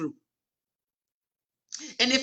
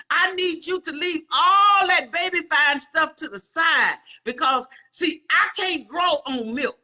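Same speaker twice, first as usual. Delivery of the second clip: preaching build to shout; 4 semitones higher than usual. Real, not acted. Preacher to congregation, building to a shout. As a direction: push it up to a cry.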